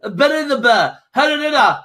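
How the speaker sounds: hammed-up accent, game over shouted with a laugh; slowed, laughing mock shout of game over; mocking Russian wrestler. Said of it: "He's going".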